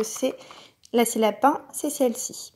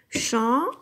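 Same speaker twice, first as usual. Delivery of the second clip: syllable by syllable. Shown as a demonstration. Teacher claps "Champignon" together with the child, syllable by syllable. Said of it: "le taper dans les mains".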